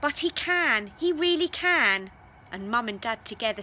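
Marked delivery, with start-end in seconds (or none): 0.0-2.1 loud impatient insistence. Pretend. Mary insisting impatiently to her parents, loud. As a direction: push back hard, fed up. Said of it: "Me becoming impatient".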